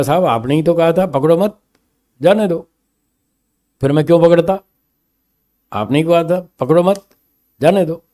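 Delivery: constable's protest. Acted. Constable answering the jailer's scolding, mildly protesting. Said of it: "सिपाही ने कहा".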